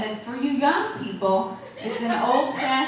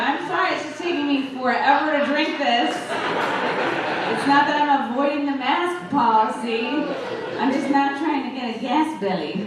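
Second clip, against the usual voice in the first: mock sheepish excuse; 4 semitones higher than usual. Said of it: "You're like".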